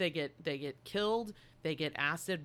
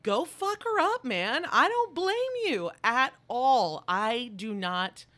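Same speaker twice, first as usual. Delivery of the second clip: much higher, louder excited cheer; 6 semitones higher, 7 dB louder than usual. Retold or imitated. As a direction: egg the queen on from the couch. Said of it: "And I was like".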